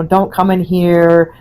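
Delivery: mildly cranky, drawn-out complaint. Retold or imitated. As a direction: imitate a grumpy woman, slowly. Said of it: "she gets real cranky".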